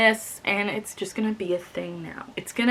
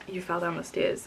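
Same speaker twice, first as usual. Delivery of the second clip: softened, slightly lowered voice for a quoted whisper; retold whisper; 8 dB quieter than usual. Husband to injured Lily after the fall, softly imitated whisper. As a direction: read his whisper softly, still voiced. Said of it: "he whispers".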